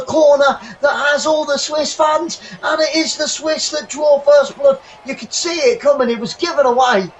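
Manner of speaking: fast, rising match call; live football commentary. Acted. Fan commentating a match live. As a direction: call the action as it unfolds.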